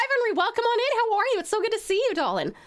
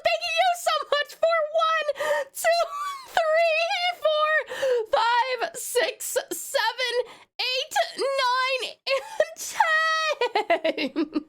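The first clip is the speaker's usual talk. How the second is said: laughing; 4 semitones higher, slower than usual. Real, not acted. Counting gifts, laughing shrieks.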